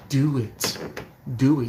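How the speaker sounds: half-hearted imitation of a megaphone scream; retold screaming. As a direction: goad him with a half-yelled command. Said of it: "screaming into his ear".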